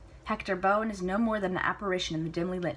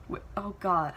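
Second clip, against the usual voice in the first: ordinary delivery, nothing marked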